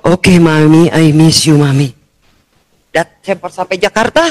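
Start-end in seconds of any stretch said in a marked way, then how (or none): 0.1-1.9 a grown son missing his mom; son's voice. Retold or imitated. Son telling his mother he misses her, lower voice.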